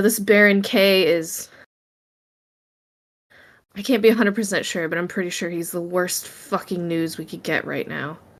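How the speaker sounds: exasperated. Voicing a character hitting a newspaper in frustration: frustrated. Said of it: "frustrated what they read in the news".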